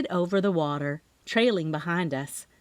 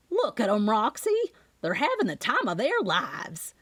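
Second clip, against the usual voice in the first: excited; 2 semitones higher than usual. Acted. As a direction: gleefully point out the kids. Aunt delighted waving at kids.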